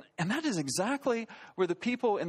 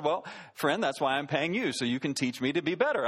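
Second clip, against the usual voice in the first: lower-pitched, mildly smart-aleck retort; retold smart aleck; 6 semitones lower than usual. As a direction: put him in his place, a touch condescending. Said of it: "got a little bit of a smart aleck".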